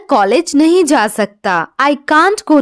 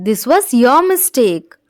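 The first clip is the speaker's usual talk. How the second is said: slow model reading; much slower than usual. Shown as a demonstration. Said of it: "teacher repeats the English sentence".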